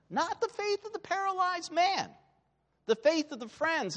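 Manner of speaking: high, pointed stress on faith; emphatic correction. Real, not acted.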